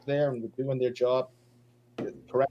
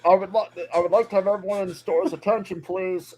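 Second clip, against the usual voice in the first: over the intercom; 4 semitones higher, 7 dB louder than usual. Pretend. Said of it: "gone on the loudspeaker to apologize".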